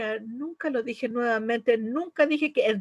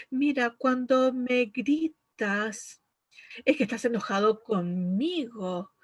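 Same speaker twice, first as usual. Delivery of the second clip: calm good tone. Shown as a demonstration. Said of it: "Vamos a tener un buen tono de voz".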